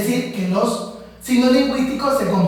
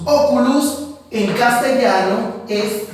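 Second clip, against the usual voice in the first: slow teaching; slower than usual. Shown as a demonstration.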